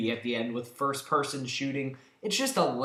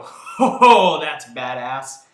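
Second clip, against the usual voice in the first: impressed; 11 dB louder, slower than usual. Pretend. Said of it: "where you go".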